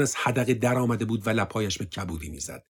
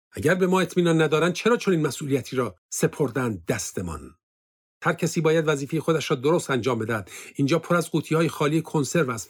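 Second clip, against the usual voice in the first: raised, scolding officer's voice; an irritated officer, pitched higher; angry officer; 5 semitones higher than usual. Acted. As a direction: berate them from above. Officer scolds soldiers in bunker.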